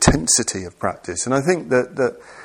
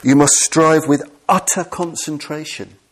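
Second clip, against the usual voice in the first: higher and louder, solemn decree; quoting the texts; 6 semitones higher, 4 dB louder than usual. Retold or imitated. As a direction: intone it like an old scripture. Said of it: "they often talk about".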